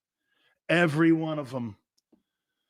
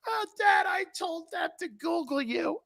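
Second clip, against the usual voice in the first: daughter's voice; 13 semitones higher, 4 dB quieter than usual. Retold or imitated. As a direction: play the cheeky daughter calling out to Dad. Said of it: "She goes".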